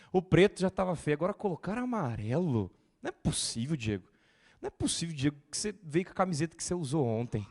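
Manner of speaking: exasperated mock griping; picky churchgoer complaining; mock complaint. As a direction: whine about every detail.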